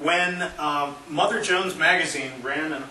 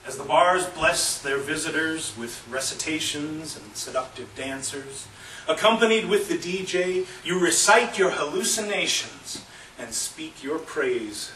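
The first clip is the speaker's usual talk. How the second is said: poem reading; 2 semitones higher than usual. Acted. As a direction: recite it, lifting midway and settling at the end. Reads a poem aloud.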